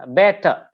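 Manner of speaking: "better" with BET stressed, ter falling away; stress on first syllable. Shown as a demonstration. Teacher giving an adjective example, first syllable stressed. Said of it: "the stress that will be on bet".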